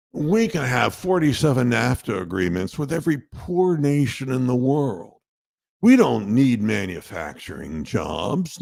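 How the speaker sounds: lightly voiced smug finance guy, unhurried; mock pitchman voice. Host mimicking the smug investment guy for listeners, lightly voiced. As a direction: put on a smooth know-it-all salesman tone, only a little. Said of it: "the goddamn guy who talks like this and says".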